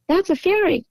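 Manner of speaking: high-pitched imitation of an insisting woman; excited insistence. Woman insists to the doubting dog owner, excited.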